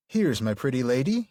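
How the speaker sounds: lightly lilting, rhythmic verse; sing-songy Tom Bombadil. Tom presenting his lady to the hobbits, sing-songy. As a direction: read it as rhythmic dialogue with a lift. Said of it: "rhythmic, sing-songy way".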